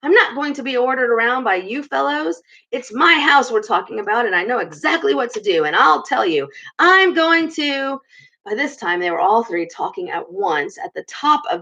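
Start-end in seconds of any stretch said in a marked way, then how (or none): 0.0-8.0 high, indignant; insist, worked up; excited defiance. Acted. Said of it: "getting excited".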